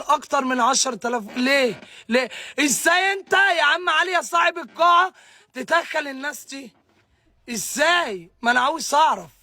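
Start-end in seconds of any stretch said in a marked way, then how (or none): 2.6-6.7 angry outcry. Real, not acted. Angry rant at hall owner.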